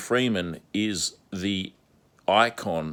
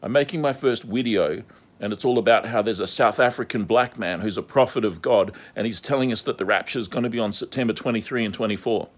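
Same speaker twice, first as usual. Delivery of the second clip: gushing Scandinavian woman impression, faster at end; Scandinavian accent; 3 semitones higher than usual. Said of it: "with her Scandinavian accent".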